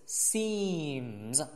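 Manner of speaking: "seems" with a drawn-out ee; long vowel. Shown as a demonstration. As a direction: hold the ee in "seems", end voiced. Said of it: "长一音". ("seems"长音一，词尾浊音)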